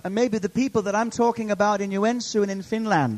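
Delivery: impassioned address to a congregation; preaching. Real, not acted. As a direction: build the sermon with rising urgency. Preacher building in force.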